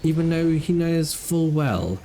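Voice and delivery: slow, hushed wildlife narrator; nature documentary. Acted.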